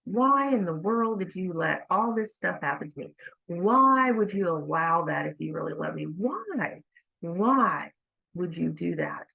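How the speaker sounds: mild mock yell, leaning hard on each why; retold yelling. Railing at God over bad things happening, a mild retold yell. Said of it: "I'm yelling at him pretty much saying".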